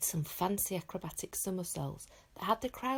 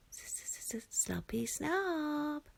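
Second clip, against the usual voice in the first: stuttering dragon taunt; 9 semitones higher, much slower than usual. Acted. Toothless repeats the taunt.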